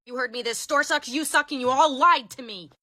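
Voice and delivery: high, building indignant rant; acted outraged complaint; angry customer. Angry customer berates manager outside.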